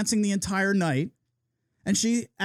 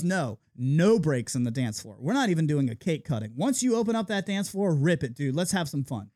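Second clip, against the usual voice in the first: bride's voice mimicked in a lower register; imitating the bride; 6 semitones lower than usual. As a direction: lower voice, a quick mock party-bride impression. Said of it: "She goes".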